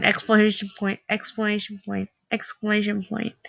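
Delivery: tongue twisting. Shown as a demonstration. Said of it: "how hard it is to say exclamation point".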